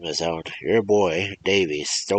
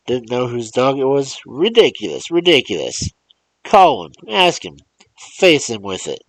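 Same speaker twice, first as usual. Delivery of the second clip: loud, raised, accusing rant; angry old man; 5 semitones higher, 6 dB louder than usual. Acted. Old man demanding the mother call her boy, angrily loud. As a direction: hammer the mother with blame.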